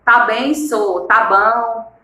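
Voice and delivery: lightly imitated Mineiro "sô" and "bão"; Mineiro accent. Shown as a demonstration. Teacher imitates folk from Minas, light Mineiro accent. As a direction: stretch the words like a Mineiro. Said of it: "Nós temos o mineiro, que fala".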